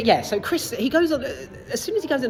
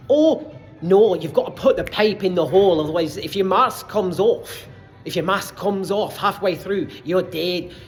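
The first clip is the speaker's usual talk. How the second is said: put-on Scottish accent; emphatic amateur Scottish impression; 3 dB louder than usual. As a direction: warn them in a stern Scottish accent. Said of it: "you've got Scottish".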